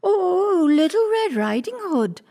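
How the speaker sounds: high, loud mock-girl voice; put-on sweet-girl answer; wolf posing as little girl. A narrator's reading. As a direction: pitch it high to pass as the girl.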